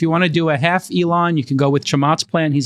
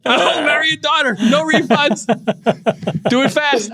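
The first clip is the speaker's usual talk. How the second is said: put-on Korean accent; 10 semitones higher than usual. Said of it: "I can do Korean".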